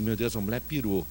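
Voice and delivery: low, soft aside of disbelief; embarrassed low aside. Retold or imitated. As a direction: murmur it so she won't hear.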